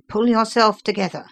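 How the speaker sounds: firm, contained cry. A narrator's reading. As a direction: urge him sharply but without shouting. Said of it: "I cried".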